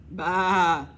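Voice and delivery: mock sheep baa; loud baa. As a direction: bleat it out. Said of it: "dijo la oveja".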